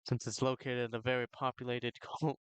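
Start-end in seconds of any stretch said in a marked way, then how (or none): 2.0-2.4 real giggles breaking into the words; giggling. Real, not acted. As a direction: crack up mid-word, then apologise. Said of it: "I just got the giggles".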